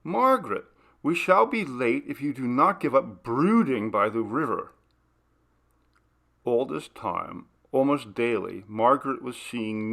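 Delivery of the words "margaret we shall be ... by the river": raised, higher call, fading into a lightly voiced scolding. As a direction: call her name, then chide her gently. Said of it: "Carla called through the woods".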